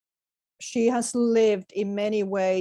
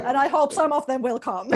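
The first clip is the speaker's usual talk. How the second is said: laughing; 4 semitones higher than usual. Real, not acted. Laughing promise to invite people.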